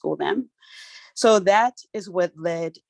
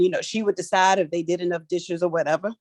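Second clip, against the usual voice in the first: normal talking voice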